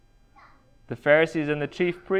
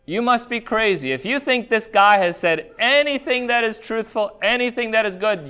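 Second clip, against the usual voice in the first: high-pitched, incredulous dismissal as the Pharisees; scornful accusation; 5 semitones higher than usual. Acted. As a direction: go straight on the attack, pitched well up. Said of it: "They're going straight for".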